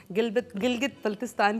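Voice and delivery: real stumble over a place name; tongue-tied false start on गिलगित; tongue stumbling. Real, not acted. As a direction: trip on गिलगित and restart it. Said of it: "ज़बान भी लड़खड़ा रही है".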